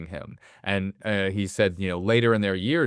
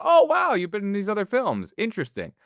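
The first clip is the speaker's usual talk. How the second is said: retold surprise; 10 semitones higher than usual. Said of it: "I go".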